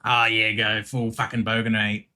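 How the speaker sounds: broad Aussie bogan accent; full bogan Aussie mate-talk; cranked-up bogan Australian. Shown as a demonstration. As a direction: lay the Australian bogan on thick. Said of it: "so I've gotta crank it up".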